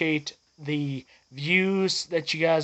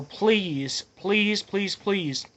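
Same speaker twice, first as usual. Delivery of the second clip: earnest repeated plea, pitched up; real, insistent pleading; 4 semitones higher, much slower than usual. Real, not acted. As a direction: beg the viewers, voice lifting on the repeats. Urging viewers about road safety.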